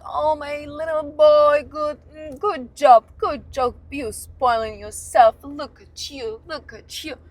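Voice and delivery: put-on high cooing mother praising a little boy; doting mother. Mocking the boyfriend as a mother would, high cooing. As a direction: coo at him like a proud mom. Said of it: "But I'm not your mother".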